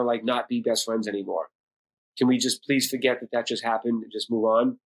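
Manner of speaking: earnest, subdued plea; gently retold making up; sincere apology. Son calls dad back to apologise, sincere.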